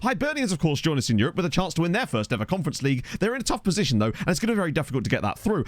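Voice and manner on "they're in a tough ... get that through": slips into a quick Scottish accent; briefly a Scottish lilt, faster. Real, not acted. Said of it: "I said that in a Scottish accent".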